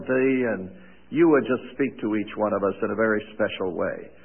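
reverent prayer voice, unhurried and earnest; opening prayer. Acted. Teacher praying for his students, reverent and earnest. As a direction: pray over the class before the study.

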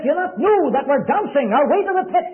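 urgent pleading. Retold or imitated.

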